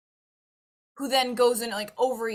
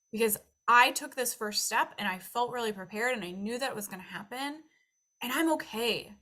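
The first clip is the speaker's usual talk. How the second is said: confident self-talk; 2 semitones higher, 5 dB louder than usual. Retold or imitated. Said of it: "walk into that situation like".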